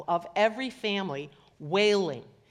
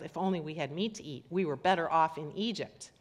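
quick, lower mocking echo of the complaint; 3 semitones lower than usual. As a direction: rattle it off fast, mimicking the whiners. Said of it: "you cannot read this without a tone of voice".

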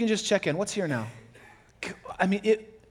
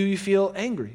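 ordinary talk

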